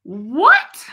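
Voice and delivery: breathless stunned whisper, loud air; retelling the moment of shock at the gate. Retold or imitated. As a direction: gasp out the word in disbelief. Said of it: "I was like".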